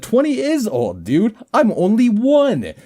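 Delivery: put-on high, bright-eyed toddler boast; childish high voice. Great-grandfather hears a toddler: high piping voice. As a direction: pipe up like a one-year-old. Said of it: "And then I said".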